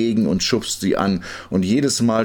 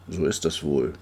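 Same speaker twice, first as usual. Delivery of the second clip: soft, lower musing; resigned thought; 5 semitones lower, 6 dB quieter than usual. A narrator's reading. Tired pusher thinking to himself, resigned. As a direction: think it aloud, low and soft.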